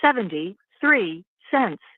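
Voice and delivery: tinny phone line; on a prison phone. Real, not acted. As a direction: sound like a recorded jail call. Recorded prison phone call played.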